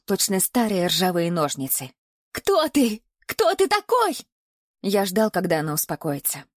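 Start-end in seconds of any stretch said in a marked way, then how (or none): 2.3-4.2 very high, panicked woman's voice; terrified woman. A narrator's reading. Bound woman panics and demands who her captor is, very high.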